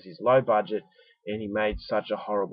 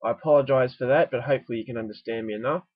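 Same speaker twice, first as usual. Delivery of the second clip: stuffy nose; 3 semitones higher, 3 dB louder than usual. Real, not acted. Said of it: "I apologise if I sound a bit stuffy".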